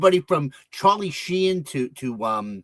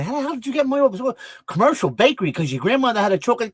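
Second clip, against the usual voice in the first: higher, louder Brooklyn wiseguy; Brooklyn tough guy; 3 semitones higher, 4 dB louder, faster than usual. Shown as a demonstration. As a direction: switch into full Brooklyn hustle. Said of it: "But I can also say".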